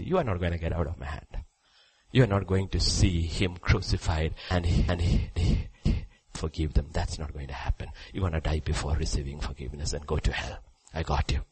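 a hint of a gloating devil, quietly; lightly voiced devil. Preacher as devil telling Judas he's trapped, hushed menace. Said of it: "The devil said".

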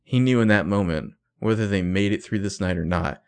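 measured, mildly dramatic book narration; purple prose reading. Acted. Co-host reads the author's purple prose to mock it, mildly dramatic. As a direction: read it out like overwrought romantic prose. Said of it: "reading her some of Ezra's purple prose".

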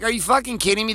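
a sudden high, exasperated "are you kidding me"; incredulous retort. Retold or imitated. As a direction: fire back like you can't believe what you just heard. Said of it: "And you're like".

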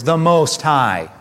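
"the Most High" said slowly, leaning on "Most"; stress on Most High. Shown as a demonstration. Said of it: "note these words".

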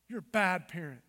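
low, pointed accusation; accusing evil voice. Acted. Evil shaming a parent, pointedly accusing. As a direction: drive the blame home on BAD. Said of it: "See the difference?".

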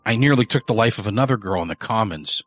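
a rough, rattled man confessing; gruff confessing killer. Acted. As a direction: spill it to the priest, uneasy. Early's confession to the priest.

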